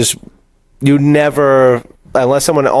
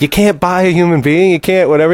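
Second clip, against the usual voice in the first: retold protest; 8 semitones higher than usual. Retells characters arguing over buying man.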